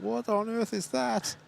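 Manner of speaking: alarmed. Retold or imitated. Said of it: "everyone else would be going".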